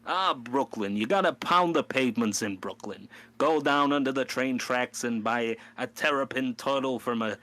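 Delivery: lightly done Brooklyn tough-guy patter; New York voice. Retold or imitated. Teasing dad in Brooklyn with hammed-up New York accent. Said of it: "how everybody reacts to that accent".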